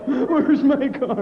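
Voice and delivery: mock Alzheimer's confusion; confused old man. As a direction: drag it out like you forgot everything. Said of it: "parking lot Alzheimer's walk".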